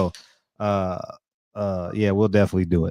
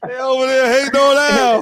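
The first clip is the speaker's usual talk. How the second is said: 1 mock high voice; 3 dB louder than usual. Mocking repeat after laughing.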